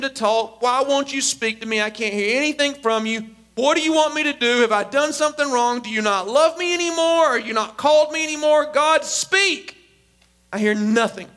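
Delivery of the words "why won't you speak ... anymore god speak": re-enacted upset prayer, climbing to a demand; begging God. Upset believer begging God to talk, rising desperation. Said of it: "I'm screaming, I'm crying to God, I'm begging him".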